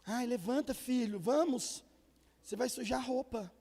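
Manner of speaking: lightly voiced pleading dad, slow and coaxing; a hint of a meek father begging his son; pleading soft father. Father softly begging his son to get up off the floor. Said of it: "E o pai assim".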